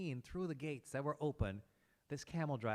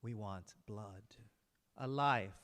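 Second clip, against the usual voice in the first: cold vengeful brothers; 4 semitones lower than usual. Acted. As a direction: calmly demand a life for a life. Brothers demand revenge.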